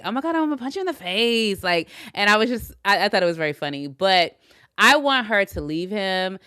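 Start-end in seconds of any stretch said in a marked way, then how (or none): 0.0-1.6 fast, higher mock Kata threat; a hint of Marge Simpson in a mock threat; imitating Kata. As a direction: rattle it off as a cartoon mom. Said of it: "he was doing her voice so well".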